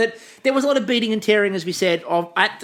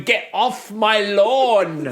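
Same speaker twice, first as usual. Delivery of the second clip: put-on grumpy old bird; much slower than usual. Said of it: "banging on the pavilion going".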